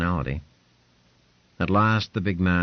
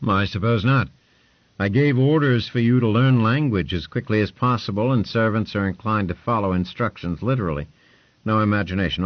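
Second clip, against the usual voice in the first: louder, higher lordly voice; commanding lord; 4 semitones higher, 5 dB louder than usual. Acted. Lord Ponce giving orders to Hugh, a loud lordly voice.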